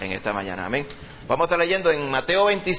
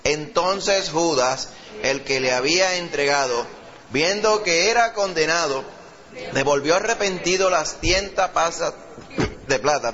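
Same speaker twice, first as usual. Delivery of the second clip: slow, raised declamatory reading; scripture reading; 3 semitones higher, slower than usual. Acted. Preacher reads of Judas to the congregation, slow and declamatory. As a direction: proclaim the verse in long, measured phrases. Reads second passage aloud.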